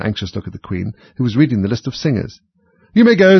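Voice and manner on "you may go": high, loud dismissal; royal dismissal. A narrator's reading. King dismissing the Hatter, loud order. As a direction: send them off loudly, pitched up.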